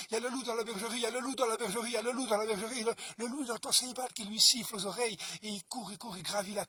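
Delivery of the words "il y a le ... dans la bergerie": alerte criée, aiguë et forte; chien qui hurle. Acted. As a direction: crie l'alarme de toutes tes forces. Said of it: "ce chien qui crie". (le chien de garde crie l'alarme)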